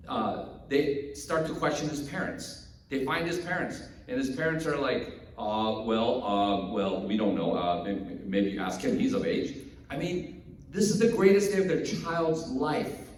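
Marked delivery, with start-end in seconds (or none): 5.4-9.6 low, halting reluctant dodge; hesitant evasion. Acted. Nervous parents questioned by Pharisees, hesitant and evasive. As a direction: hedge and pass the question on.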